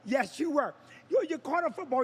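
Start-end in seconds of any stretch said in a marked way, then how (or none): 1.1-2.0 a dismissive wife, voiced higher; mocking Vicky. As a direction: shrug off his pain in her voice. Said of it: "Vicky's like".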